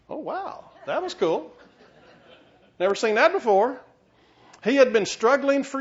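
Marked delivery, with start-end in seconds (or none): 0.1-3.8 high astonished wow, laughing; amazed delight. Retold or imitated. Preacher voicing an astonished Wesley after the conversion. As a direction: gush like a stunned newcomer. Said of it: "he's like".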